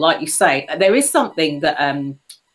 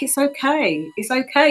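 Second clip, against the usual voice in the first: retold consoling; 8 semitones higher than usual. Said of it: "I was really consoling her".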